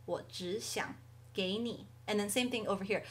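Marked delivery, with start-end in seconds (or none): 0.1-1.9 slow 我只想给你 with 只 rising; 只 in second tone. Shown as a demonstration. Teacher showing the changed tone in the phrase, 只 rising in 我只想给你. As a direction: model 我只想给你 slowly, lifting 只. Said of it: "只 becomes second tone".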